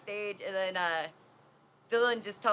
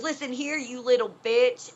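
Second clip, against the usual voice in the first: higher-pitched retold insult, punched at the end; mock cussing out; 4 semitones higher, 5 dB louder than usual. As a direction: imitate an angry man telling someone off. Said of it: "cussing her out".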